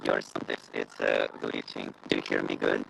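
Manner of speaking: glitching, cutting out; garbled call audio; bad connection. Real, not acted. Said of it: "It's not good".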